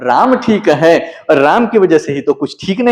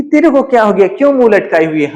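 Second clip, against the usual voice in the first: queen teasing her maid, higher and brisk; teasing laugh; 5 semitones higher, faster than usual. Acted. Queen Kaikeyi teases her sulking maid, light and mocking. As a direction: playfully chide a sulking servant. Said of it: "हंसकर बोल रही है".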